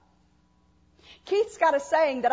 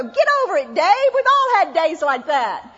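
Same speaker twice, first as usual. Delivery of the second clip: blunt brush-off; 5 dB louder than usual. Pretend. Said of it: "I'd probably go".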